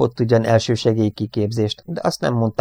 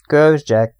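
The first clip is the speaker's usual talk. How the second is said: raised, loud thanks; grateful exclamation; 6 semitones higher, 8 dB louder than usual. A narrator's reading. Airman thanks his crewmate for the medal, gratefully. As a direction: blurt out thanks with relief. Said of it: "túláradó hálát".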